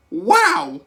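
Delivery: high, loud theatrical wow; a showman's delighted wow; Willy Wonka wow. Retold or imitated. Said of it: "Who, who did that wow? Was it Mister Wonka".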